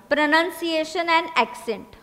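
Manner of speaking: very slow, word by word; slow dictation. Shown as a demonstration. Teacher dictating first point, slow. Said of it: "ये लिखना".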